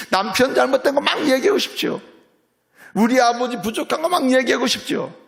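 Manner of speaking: high, loud fervent sermon; preaching at full force. Acted. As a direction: drive it home to the congregation. (힘있게 외치는 설교)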